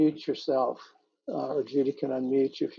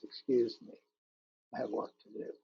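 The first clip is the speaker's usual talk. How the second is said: 'Excuse me, I have work to do' repeated softer, fading to a breath; hushed closing echo of the poem's last line; 7 dB quieter than usual. Acted. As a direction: let the repeat die away to almost a whisper. Repeated sea's lines, fading.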